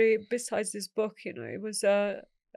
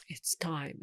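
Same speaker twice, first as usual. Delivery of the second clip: retold whisper; 5 semitones lower, 6 dB quieter than usual. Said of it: "my dad was whispering with my mom".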